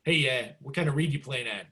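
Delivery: lightly imitated New Zealand-Buffalo accent; a touch of mixed New Zealand and Buffalo accent; weird New Zealand-Buffalo accent. Sax teacher to starstruck student, weird New Zealand-Buffalo accent. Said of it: "this kind of weird accent".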